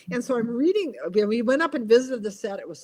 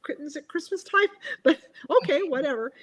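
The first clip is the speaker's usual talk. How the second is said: higher, dry polite surprise with a laugh; wry polite reaction; 6 semitones higher than usual. Retold or imitated. Author hears about the unwanted sequel, dry polite. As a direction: pretend to be gracious, barely. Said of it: "I'm like".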